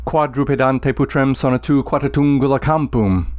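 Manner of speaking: Latin line beating like hoofbeats; galloping recitation. Shown as a demonstration. Teacher reading Virgil's hoofbeat line, rhythmic. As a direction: let the dactyls gallop. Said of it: "Let me repeat it".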